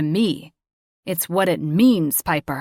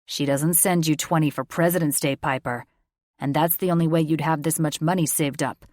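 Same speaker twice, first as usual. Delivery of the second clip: acerbic; 5 dB louder than usual. A narrator's reading. Father mocks her excuse, acerbic and loud. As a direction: cut her down with sarcasm. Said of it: "his voice was acerbic".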